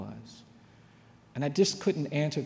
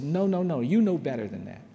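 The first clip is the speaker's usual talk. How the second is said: scolding mother; 2 semitones higher, 5 dB louder than usual. Retold or imitated. Mother answers her son's excuse, loud scolding. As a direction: cut off the excuse firmly.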